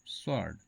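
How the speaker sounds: स्वॉर्ड with the W sounded; common mispronunciation. Shown as a demonstration. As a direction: say स्वॉर्ड wrongly, a W after the S. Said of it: "ये गलत है". (स्वॉर्ड में व बोलकर गलत उच्चारण)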